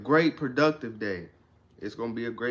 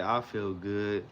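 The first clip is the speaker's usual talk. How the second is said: flat and low; 4 semitones lower, 4 dB quieter, slower than usual. Shown as a demonstration. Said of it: "Don't be like".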